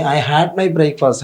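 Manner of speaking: very slow, every word spaced out; slow classroom dictation of an example sentence. Shown as a demonstration. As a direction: read it out slowly for students to copy. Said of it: "നമുക്കിവിടെ നോക്കിയേ".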